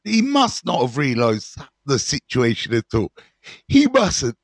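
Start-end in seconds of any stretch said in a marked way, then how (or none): 3.7-4.4 mid-yawn, words stretched open. Real, not acted. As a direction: say it through a yawn. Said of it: "sorry about the yawning".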